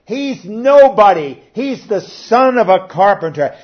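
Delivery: loud scornful dismissal; mocking townsfolk. Preacher voicing townsfolk mocking Jesus, loud scoff. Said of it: "they were mocking him".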